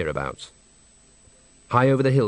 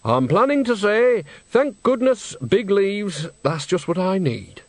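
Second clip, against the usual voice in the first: put-on much higher old woman, cheeky; a chirpy old witch unbothered in the bushes; Nanny Ogg voice; 9 semitones higher than usual. Nanny teasing Granny from behind the gorse, high-pitched. Nanny jokes about leaves.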